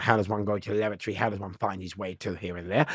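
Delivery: a hint of a prim public-school voice; mock the proper schoolboy; lightly posh English. Recalling schoolboy self who spoke perfect English, lightly posh. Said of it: "I spoke really perfect English".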